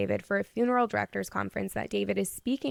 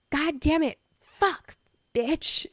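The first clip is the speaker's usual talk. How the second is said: frustrated cursing; 7 semitones higher, slower than usual. Retold or imitated. Billy cursing on answering machine.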